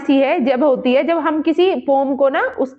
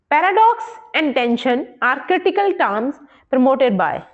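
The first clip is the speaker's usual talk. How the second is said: slow, careful dictation of an exam question; unhurried teacher reading the question; much slower than usual. Acted. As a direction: read it out word by word for students. Reads exam question slowly.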